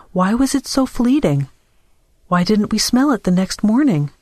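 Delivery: lightly voiced doubter, pitch climbing through the questions; sceptical Dora. Dora doubts the odor of sanctity to the shopkeeper, lightly challenging.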